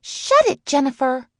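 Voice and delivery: high, loud interrupting yell; shouted order to shut up. A narrator's reading. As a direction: cut in with a piercing shout. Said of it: "with a loud shout".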